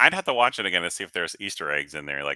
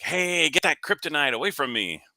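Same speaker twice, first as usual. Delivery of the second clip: Batman impression; 9 semitones higher than usual. Shown as a demonstration. Dad shows off his Batman impression for a dad joke, goofy high voice. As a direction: call out a goofy bad Batman. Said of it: "working on my Batman impression".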